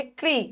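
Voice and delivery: क and री run together as one syllable क्री; blended sounds. Shown as a demonstration. Teacher showing both sounds heard together, क्री as one blend. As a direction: join क straight into री for क्री. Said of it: "दोनों की ध्वनि आ जाए".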